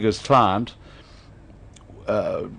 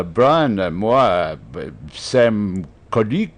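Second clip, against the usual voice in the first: halting mock French accent; put-on French accent; 5 semitones lower, slower than usual. English speaker trying French on a Frenchman, halting French accent. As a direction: fumble it out in a would-be French accent. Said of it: "you speak with a French accent".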